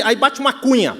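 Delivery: ordinary talk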